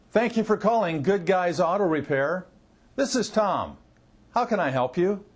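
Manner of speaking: upbeat, unrushed receptionist greeting with short pauses; nicely paced phone greeting. Shown as a demonstration. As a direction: greet the caller at an easy pace, closing on a helpful question. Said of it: "a nice pace".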